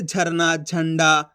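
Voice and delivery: "झरना", "झंडा" with aspirated jh, each set apart; model pronunciation. Shown as a demonstration. Teacher giving example words, separate aspirated "झरना", "झंडा". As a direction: sound out "झरना" and "झंडा" on a breathy-released jh. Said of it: "इस तरीके से बोलोगे".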